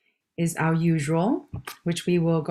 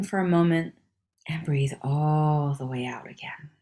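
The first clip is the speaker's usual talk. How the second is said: guided breathing. Acted. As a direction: lead each breath in and out, stretching key words.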